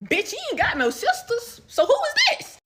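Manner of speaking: like you just caught him red-handed; shocked disbelief. Real, not acted.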